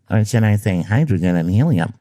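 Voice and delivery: hydrogen and helium said in a fancy put-on accent; mock-refined hydrogen and helium; posh re-pronunciation. Shown as a demonstration. Host mocking his own ad read, in a fancy voice. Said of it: "Okay, that was unnecessary".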